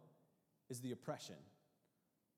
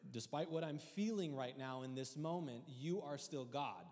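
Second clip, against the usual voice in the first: prayer to the Lord; 3 semitones higher, 4 dB louder than usual. Retold or imitated. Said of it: "I say".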